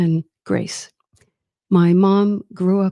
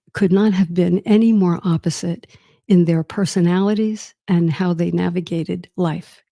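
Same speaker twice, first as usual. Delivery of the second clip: usual speaking voice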